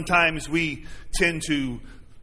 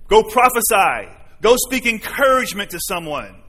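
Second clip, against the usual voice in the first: mock shouted command; a hint of shouting orders; loud urging; 3 dB louder than usual. Shown as a demonstration. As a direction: call it out like a shout. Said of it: "God is not shouting at us".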